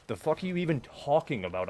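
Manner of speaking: loud, high, incredulous; exasperated outburst. Real, not acted. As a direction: shout it in disbelief. Angry at random messager.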